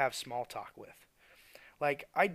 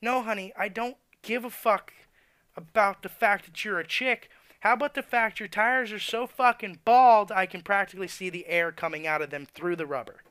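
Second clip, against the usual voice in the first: loud, higher, condescending jab; sarcastic honey; 6 semitones higher, 8 dB louder than usual. Real, not acted. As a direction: talk down to her sarcastically, loud and high. Mocking female customers, sarcastic.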